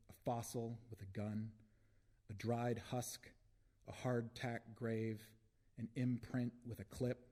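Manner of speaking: measured, deliberate spoken-word delivery; poem reading. Acted. Poet reads a war poem to an audience, measured recital. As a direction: recite it phrase by phrase with weighty pauses.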